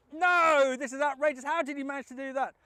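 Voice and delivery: taxman cries out in loud disbelief; shouted shock, pitch leaping up; outraged shout. Retold or imitated. Taxman shouting at the old chap's trick, outraged.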